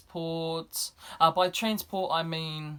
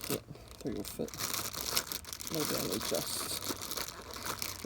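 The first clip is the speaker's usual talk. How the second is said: whispering to self; 6 semitones lower, 8 dB quieter, much slower than usual. Real, not acted. Muttering to self while packing.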